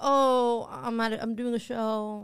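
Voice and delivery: drawn-out, showing off a little; trying to sound cool. Retold or imitated. Bragging to a Tinder match about a show, trying to sound cool. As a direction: play it casually important. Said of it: "I thought it sounded cool".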